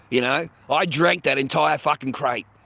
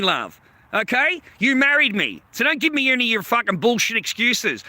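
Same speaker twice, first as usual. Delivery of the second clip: angry retort; 5 semitones higher than usual. Retold or imitated. Retold row with wife.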